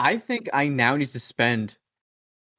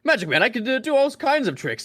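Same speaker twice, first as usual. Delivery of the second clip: stage magician pitched much higher; Magic Man voice; 10 semitones higher than usual. Pretend. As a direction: brag about your tricks in a higher showman voice. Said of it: "all my people have to sound like this".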